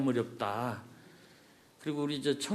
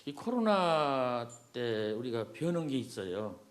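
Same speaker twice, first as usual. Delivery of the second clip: muffled through a mask; through a face mask; 4 dB quieter than usual. Real, not acted. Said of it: "그냥 마스크 쓰고 하겠습니다". (마스크 쓰고 말하는 소리)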